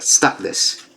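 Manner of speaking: breathy whispered "Stop this."; mock whisper of a command; hushed stop. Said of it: "He's like".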